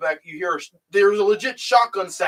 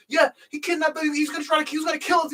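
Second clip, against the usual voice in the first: quoting Jesse; 10 semitones higher, faster than usual. Retold or imitated. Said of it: "Jesse's trying to tell".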